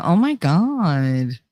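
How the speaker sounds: slow, drawn-out Jersey "God"; exaggerated Jersey exclamation. Shown as a demonstration. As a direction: stretch "God" with a Jersey vowel. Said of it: "you never heard me say God?".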